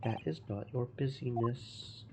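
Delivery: a hint of a Russian accent, gruff and proud; broken-English Russian sailor. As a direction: play the touchy ship's guard, lightly accented. Guard repeats the refusal.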